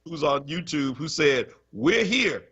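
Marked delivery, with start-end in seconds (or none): 1.7-2.4 higher-pitched imitated viewer's call; mock protest. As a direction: pipe up as an overlooked viewer. Acts out viewer's comment to hosts.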